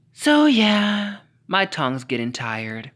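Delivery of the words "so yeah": loud so yeah. Real, not acted. Loud sign-off.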